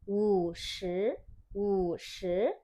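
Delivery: teacher modelling wu shi for the class; tone three then two. Shown as a demonstration. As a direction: say wu shi slowly, third tone dip then second tone rise. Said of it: "Bacanya seperti ini".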